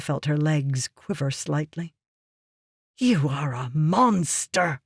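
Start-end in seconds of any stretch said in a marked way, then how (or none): 3.0-4.8 slow, hissed accusation. Acted. Yasna to Meridas, appalled by his slave plan, slow hiss. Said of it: "she hissed".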